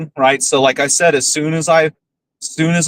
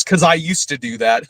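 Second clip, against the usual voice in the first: imitated nervous laugh. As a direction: quote him, then a nervous chuckle. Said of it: "then he laughed nervously".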